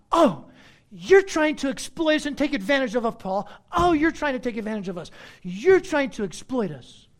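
mock the church's complaint; mock accusation. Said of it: "they're like".

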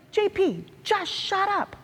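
hushing an annoying friend in a squeaky voice; fed-up telling off of a chatty friend; exasperated. Retold or imitated. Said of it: "it's like".

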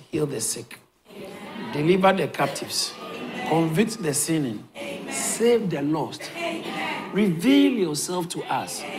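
earnest, hushed pastoral prayer. Acted. Opening prayer before sermon.

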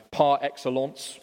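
badly attempted French accent; a hesitant stab at a French accent. Shown as a demonstration. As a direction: have a clumsy go at French pronunciation. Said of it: "I can't do the French accent".

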